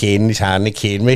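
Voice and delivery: usual speaking voice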